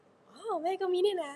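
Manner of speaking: high, soft and slow, a light take on mom; mother's surprised reply. Retold or imitated. Daughter voicing her mother, lightly, soft and high. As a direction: mom calmly noticing she has one too. Mother answers about the lump.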